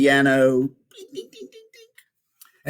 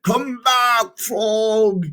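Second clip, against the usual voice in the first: higher, calling into the dark; desperate shout; 8 semitones higher, much slower than usual. Acted. Toad spinning in the dark shouts for Frog to come back. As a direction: call out for your lost friend. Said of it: "he shouted".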